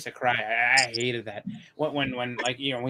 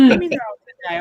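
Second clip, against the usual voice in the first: mom's voice; 11 semitones higher, 12 dB louder, faster than usual. Retold or imitated. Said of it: "And then she's like".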